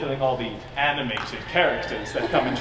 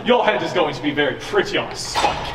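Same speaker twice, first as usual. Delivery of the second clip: villain menace; 3 dB louder than usual. Acted. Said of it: "my evil villain monologue".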